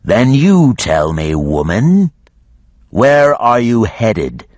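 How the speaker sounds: a great beast bargaining; dragon voice. A narrator's reading. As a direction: dragon questions the woman. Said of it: "said the dragon".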